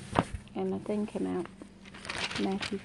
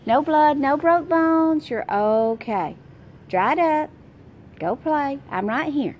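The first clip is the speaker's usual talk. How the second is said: put-on brisk teacher to crying child; 5 semitones higher, 8 dB louder than usual. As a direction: tell a scraped-up kid to shake it off. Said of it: "how many times have I said".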